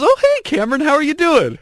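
host mimicking Jennifer answering his call, high; imitating Jennifer. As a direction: mimic the friendly woman on the phone. Imitating woman on phone.

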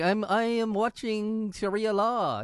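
slow, high mock accent; a vague put-on Middle Eastern accent. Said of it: "You were trying to change your voice".

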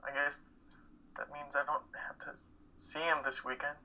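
a soft whisper, ashamed; half-voiced admission he hardly dares say; whispered confession. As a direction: whisper it to yourself. Grieving son's private admission.

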